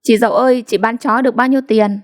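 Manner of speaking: teasing high call; mocking tease. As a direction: taunt her with a grin. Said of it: "nói to". (giọng chế giễu)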